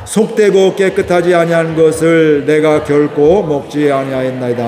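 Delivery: solemn recitation of scripture; scripture reading. Acted. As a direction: read the verse together, unhurried. Congregation reads scripture aloud.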